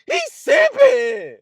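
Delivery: high, slow, hammed-up yell of He's simping; mock shout. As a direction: call it out like a rowdy onlooker. Mocking hype shout.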